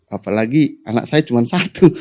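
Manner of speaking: usual speaking voice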